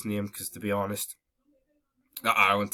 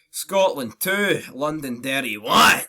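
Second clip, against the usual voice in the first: slow, loud, drawn-out scoreline; mock score announcement; 3 semitones higher, 6 dB louder, slower than usual. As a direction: call out the result like a gloating announcer.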